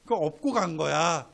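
a fond, mocking "you silly" to a friend; teasing Jesus voice. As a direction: talk like an old friend ribbing a pal. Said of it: "웃으시면서 하셨던 말씀".

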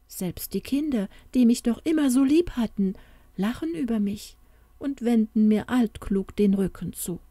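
leicht gespielte Märchenfigur, gekränkt; wehmütig klagendes Märchen. Acted. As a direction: mit einem Hauch von Klage sprechen. Voices the sad Märchen. (leise angedeutete Klage einer gekränkten Tochter)

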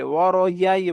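"ওয়ারআই" slurred to waro-yai; mistaken y sound. Shown as a demonstration. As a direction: put a y glide before ai in "ওয়ারআই". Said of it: "ইয়ার উচ্চারণ করে ফেলে".

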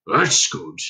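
reply as a small hairy stranger; hairy creature voice. A narrator's reading. Relieved lodger answering Dunstan, hairy creature voice. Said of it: "said the hairy voice".

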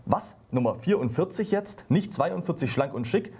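a touch of dismay at the dress size; wife in the shop mildly horrified at her size; mock horror. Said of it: "sagt entsetzt".

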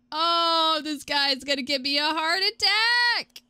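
rising, drawn-out wail of dread; stressed wail. Real, not acted. Player spooked by pursuer, stressed wail. Wailing at a game threat.

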